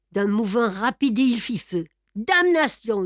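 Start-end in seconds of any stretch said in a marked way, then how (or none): 2.2-3.0 sharp pained cry, higher and louder; yelled curse. A narrator's reading. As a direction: cry out as the arm is hit. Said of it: "hurla Sholmès".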